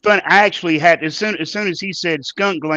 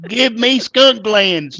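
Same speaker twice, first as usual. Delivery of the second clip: dice plea; 5 semitones higher, 4 dB louder, slower than usual. Acted. Rolling dice for a mutation.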